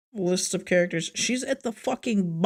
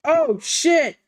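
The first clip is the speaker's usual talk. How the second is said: sudden shocked shout; startled outburst; surprised; 7 semitones higher, 5 dB louder than usual. Real, not acted.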